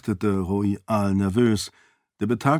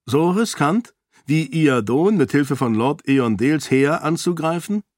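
put-on raised, earnest young woman's voice, arguing her case; a princess pleading for the peasants, lightly higher; Sarene, persuasive princess; 4 semitones higher than usual. Sarene challenges the lords. (Sarene, eindringlich und höher gesprochen)

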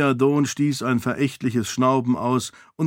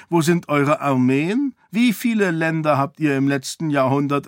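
dismissive king; 3 semitones higher than usual. Acted. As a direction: wave the priest off, pitched up.

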